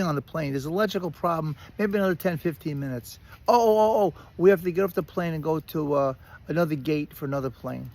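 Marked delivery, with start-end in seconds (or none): 3.5-7.9 exasperated mock announcement. Retold airline announcements, exasperated.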